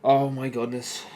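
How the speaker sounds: loud, slow, drawn-out dismay; stretched-out loud despair; exasperated groan. Real, not acted. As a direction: let it out long and loud in disbelief. Team concedes, exasperated.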